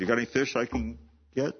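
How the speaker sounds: fast, offhand question; quick casual ask. Shown as a demonstration. Preacher paraphrasing Jesus, quick and casual. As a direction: toss it off like a fisherman asking. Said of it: "kind of asking a question".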